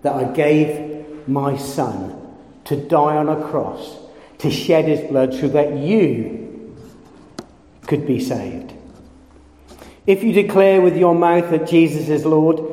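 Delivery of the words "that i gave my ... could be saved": God's tender voice. Retold or imitated. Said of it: "God's saying that to you".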